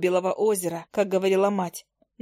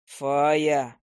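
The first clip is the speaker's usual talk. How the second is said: lower, tight warning; menacing; 6 semitones lower than usual. A narrator's reading. Hunter warning the fairy at the window. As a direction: warn her through the teeth. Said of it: "с угрозой в голосе процедил он".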